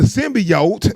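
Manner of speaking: "symbiote" said as sim-bee-ote; "symbiote", middle syllable rhyming with see; mispronounced as in trailer. Retold or imitated. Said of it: "they said that shit wrong".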